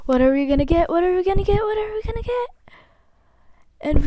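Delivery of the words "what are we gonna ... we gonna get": anticipation. Real, not acted. Waiting for hatch, rising anticipation.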